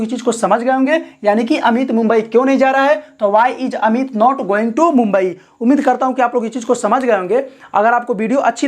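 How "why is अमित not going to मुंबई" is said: slow and deliberate; reading the full answer slowly to the class; slow dictation. Shown as a demonstration. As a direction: lay out each word for students. Dictating the English translation.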